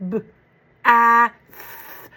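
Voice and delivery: b, a, th pulled apart with the th overdone; teacher overdoing the th in bath for first graders; segmented sounds. Shown as a demonstration. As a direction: sound out each phoneme of bath, th tongue out and long. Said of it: "Overdo that T H".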